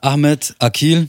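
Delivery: slow, drawn-out fighter introduction; ring announcer intro. Acted. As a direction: stretch the name like a ring announcer. Introducing the guest boxer.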